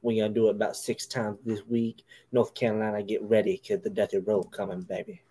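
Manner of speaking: put-on low, drawling old wrestling promo voice; lightly voiced Southern preacher of a promo; Dusty Rhodes impression. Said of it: "I had to go into some Dusty".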